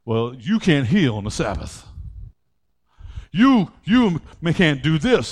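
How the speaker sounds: low, soft mock scold; mocking the legalists. Mimics religious people scolding Jesus.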